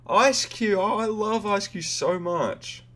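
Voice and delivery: high, delighted squeal; excited. Real, not acted. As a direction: gush over it with delight. Shiny encounter reaction.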